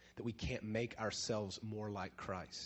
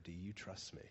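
God's question, much softer and closer; closer and quieter; 5 semitones lower, 12 dB quieter than usual. Retold or imitated. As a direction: lean in and ask quietly. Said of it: "a little closer and a little quieter".

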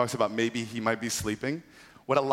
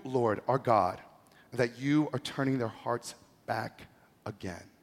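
earnest prayer; 3 semitones higher than usual. Retold or imitated. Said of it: "stepped forward and prayed".

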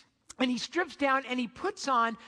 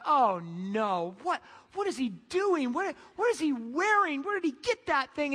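shocked wife; 3 semitones higher than usual. Retold or imitated. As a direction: play the appalled wife, pitched up. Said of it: "she's like".

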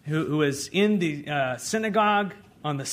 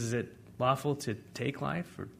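quiet; 4 semitones lower, 8 dB quieter than usual. Retold or imitated. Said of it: "He says".

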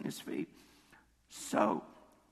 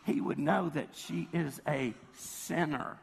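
slow, deliberate mock judgement; superior, self-righteous. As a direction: lightly imitate a Pharisee, spacing out the words. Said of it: "that self-righteousness coming".

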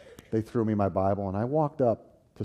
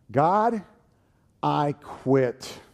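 higher, louder defiant cry; angry prayer; 5 semitones higher, 5 dB louder, much slower than usual. Retold or imitated. Angry teen quitting on God in prayer, defiant. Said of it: "I said to God this prayer".

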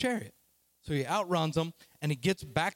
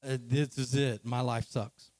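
low, downcast mumble of self-pity; acted defeat, pitched low; dejected; 6 semitones lower than usual. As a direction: hang your head and give up. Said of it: "hangs his head and says".

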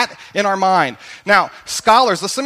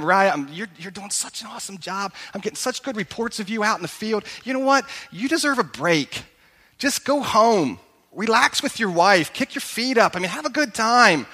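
flattering; 3 dB quieter than usual. Retold or imitated. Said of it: "he butters him up, he flatters him".

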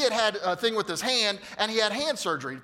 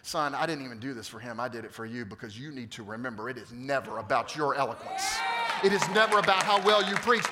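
voice of God; 2 semitones lower than usual. Retold or imitated. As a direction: speak as the Lord correcting a son. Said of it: "the Lord saying to me".

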